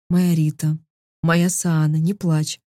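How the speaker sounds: gentle lulling murmur; soft soothing voice. Acted. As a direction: rock her to sleep softly. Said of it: "Мягкие, плавные интонации".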